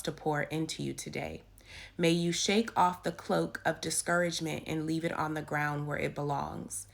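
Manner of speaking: devotional reading. Acted. Reads the devotional aloud.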